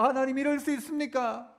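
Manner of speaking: pleading complaint, building in pitch; resentful prayer. Acted. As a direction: protest to God with a touch of grievance. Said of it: "원망하는 기도".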